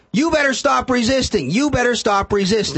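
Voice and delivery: half-hearted mock yell of a deputy. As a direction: bark it like a cop retold in a story. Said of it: "He's yelling".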